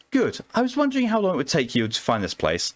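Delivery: a hint of a Southern charmer calling him formal; Southern belle accent. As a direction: play a coy Southern woman flirting with the doctor. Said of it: "God, I hate this accent".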